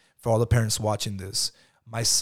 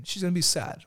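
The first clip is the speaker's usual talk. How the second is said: put-on higher childlike voice; imitating his young son; 8 semitones higher than usual. Father voicing son answering about mommy, higher child voice. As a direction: answer like a small boy. Son's voice in retold dialogue.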